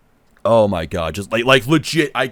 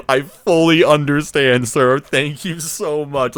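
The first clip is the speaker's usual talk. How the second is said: near tears; 8 semitones higher, 6 dB louder, slower than usual. Retold or imitated. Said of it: "I'm dead ass about to break down crying".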